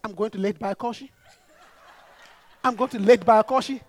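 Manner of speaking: "Laid by Koshi" as anglicised English words, rising at the end; foreigner's mispronunciation. Acted. Returnee to taxi driver, "Laid by Koshi" mispronounced like a foreigner. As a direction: say "Laid by Koshi" like a visitor, "laid-bye-KOH-shee". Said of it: "trying to act like a foreigner".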